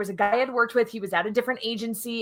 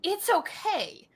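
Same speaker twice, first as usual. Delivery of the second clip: reassuring; 5 semitones higher than usual. Retold or imitated. Boss reassures unhappy employee.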